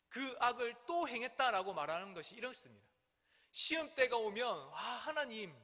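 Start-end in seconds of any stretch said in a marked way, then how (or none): 4.7-5.6 mildly acted cry for help to God. Believers praying when trials come, mildly acted crying out. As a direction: call out a plea, only half raised. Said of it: "부르짖습니다".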